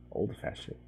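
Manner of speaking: soft whispered comment; whispered aside. Real, not acted. Whispered aside about villagers.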